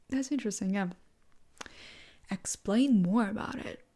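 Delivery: showing interest. Shown as a demonstration. Hearing out someone who disagrees on politics, showing interest. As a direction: invite them to explain, with pauses. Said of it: "you say".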